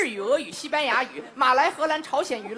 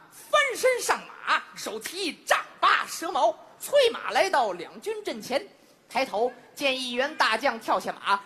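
Chinese storyteller. Shown as a demonstration. Crosstalk comic demonstrating a Three Kingdoms tale, storyteller declamation. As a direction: declaim the battle tale, drawing out key words. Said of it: "在中国用中文是这么说的".

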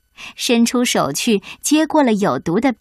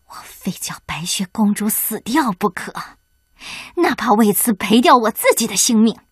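seething vow. Acted. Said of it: "气得浑身颤抖".

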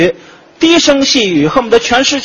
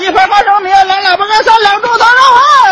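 shouted order; 10 semitones higher than usual. Acted. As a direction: bellow the order back to the kitchen. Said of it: "是不是说话声音大".

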